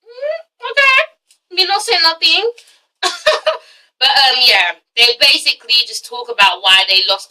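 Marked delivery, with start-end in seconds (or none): 0.0-2.5 much higher, slow Jamaican patois, playful; Jamaican yardie accent. Pretend. Vlogger teasing the yardie sister in a Jamaican accent. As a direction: drop into a cheeky Jamaican patois. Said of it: "the oldest yardie sister".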